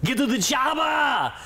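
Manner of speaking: high shouted catchphrase. Pretend. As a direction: yell it like an action hero.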